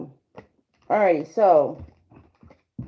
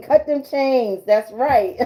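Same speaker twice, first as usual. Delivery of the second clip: excited cheer; 5 semitones higher, 4 dB louder, slower than usual. Real, not acted. Hyped tarot reader cheering a viewer.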